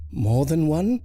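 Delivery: high, loud alarmed question. Acted. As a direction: jump up in dismay.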